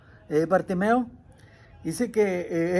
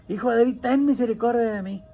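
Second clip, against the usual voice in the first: retold cry, moderately raised; imitated shout; 3 dB louder than usual. Blind man seizes his chance with Jesus, crying out. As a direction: call out the plea urgently, short of a full shout. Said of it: "empezó a gritar".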